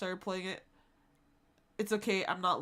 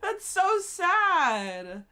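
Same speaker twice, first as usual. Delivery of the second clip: laughing disbelief; 8 semitones higher, 8 dB louder, much slower than usual. Real, not acted. Reacting to sad DM.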